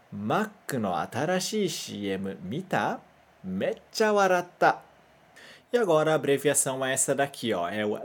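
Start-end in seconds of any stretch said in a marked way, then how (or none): 0.1-4.8 "Mac no atarashii C M mita? Meccha waratta." read slowly in careful Japanese; teacher reads "Mac no atarashii C M mita? Meccha waratta." for the class to repeat; "Mac" as "makku", "C M" as "shii emu"; slow Japanese model sentence. Shown as a demonstration. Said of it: "lê junto comigo".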